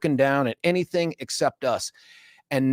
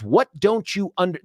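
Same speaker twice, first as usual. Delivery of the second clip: exasperated clerk; 5 semitones higher than usual. Retold or imitated. Post office worker scolding a customer, exasperated. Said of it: "this is a post office worker".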